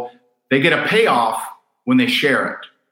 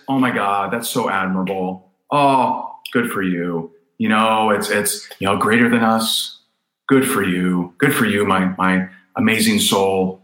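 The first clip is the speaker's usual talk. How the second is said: hammed-up flattery, cooing over someone; mock gushing praise; 7 semitones lower than usual. Coach mocking the praise people crave, gushing. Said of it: "the emotional payoff is".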